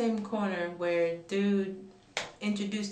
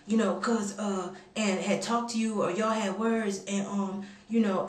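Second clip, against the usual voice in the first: lightly imitated hesitant man on the phone; halting mimicry full of filler sounds; doing the caller. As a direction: stall and stumble through an awkward phone explanation. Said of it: "I'm kinda doing him".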